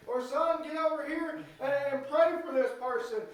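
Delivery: loud, driving preacher's cry; full-force preaching. Acted. Pastor preaching hard to his church, loud and driving.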